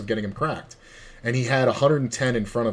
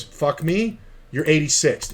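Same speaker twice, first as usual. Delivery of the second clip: higher, heated comeback; mock indignant ban; 5 semitones higher, slower than usual. Floor manager kicking out the old man, in a mock indignant tone. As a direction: throw it right back at him.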